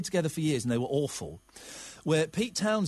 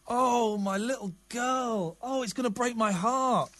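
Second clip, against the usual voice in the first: emotional; 5 semitones higher, slower than usual. Real, not acted. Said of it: "I'm getting a little bit emotional".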